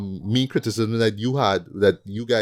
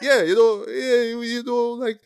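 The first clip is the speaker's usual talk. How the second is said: imitating Perry White; 12 semitones higher than usual. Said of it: "he just tells Jimmy".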